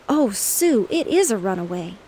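a touch of breathless alarm; mild gasping cry; gasped. Acted. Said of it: "gasped Bunny".

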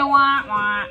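mock-disappointed "wah, wah", stepping down; sad-trombone wah-wah. Shown as a demonstration. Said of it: "got it wrong, say wah".

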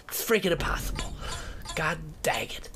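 whisper. Real, not acted. Frustrated after failing.

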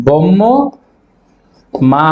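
బొమ్మ said as బొమ్ము then మా; split syllables. Shown as a demonstration. Teacher showing pupils how బొమ్మ splits. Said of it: "ఇలా పలుకుతాం".

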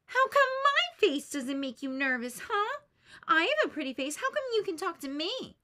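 loud indignant demand; Lucy snaps back, offended and loud; furious. Acted. Lucy furious at Charlie Brown, loud indignant shout. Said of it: "Lucy is furious".

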